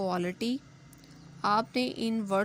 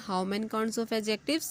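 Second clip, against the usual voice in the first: slow teacher question; much slower than usual. Shown as a demonstration. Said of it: "teacher asking class".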